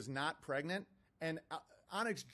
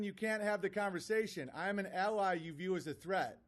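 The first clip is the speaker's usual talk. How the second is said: lightly higher mock-indignant read; mocking email reading; 3 semitones higher than usual. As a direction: read his boasts to ridicule them. Reads the critic's email mockingly.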